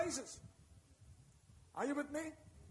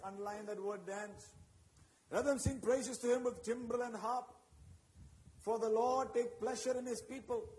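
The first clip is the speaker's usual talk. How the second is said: reading the psalm out with rising force; preacher reading a psalm aloud, building; scripture reading; 2 semitones lower, 3 dB louder than usual. Acted. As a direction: proclaim the verses to the church. Reads scripture to congregation.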